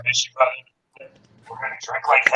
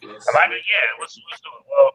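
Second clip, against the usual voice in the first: muffled; 5 semitones higher than usual. Real, not acted. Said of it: "you sound muffled".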